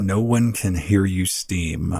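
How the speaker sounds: slow, ominous trailer voice; horror trailer voice. Pretend. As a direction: intone it like a movie poster tagline. Movie tagline parody.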